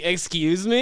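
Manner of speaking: incredulous. Retold or imitated. Replaying his answer to the officers' accusation, incredulous. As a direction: act out being shocked by the accusation. Reaction to drug supplying accusation.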